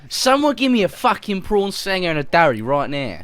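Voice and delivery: hammed-up Australian demand; mock Australian. Friend joking in Aussie slang, mock Australian.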